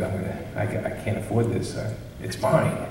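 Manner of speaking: hushed inner voice; mock whispered temptation; whispered thought. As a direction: whisper it like a guilty secret. Inner thought before stealing.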